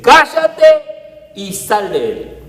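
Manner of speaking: slow, loud, commanding order; stern rebuke. Acted. Jesus ordering the demon out, slow and stern. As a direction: cast out the demon with authority.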